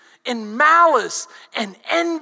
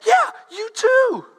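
blunt retort; 7 semitones higher, 3 dB louder, slower than usual. Retold or imitated. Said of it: "He says".

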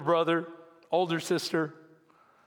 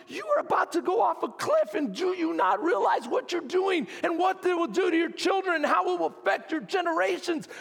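urgent pleading, higher and raised; retold alarmed warning to a straying couple; wrought up; 6 semitones higher than usual. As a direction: plead with them, frantic with worry. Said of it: "I'd be so wrought up".

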